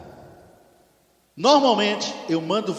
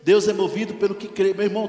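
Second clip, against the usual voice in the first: ordinary talk, nothing marked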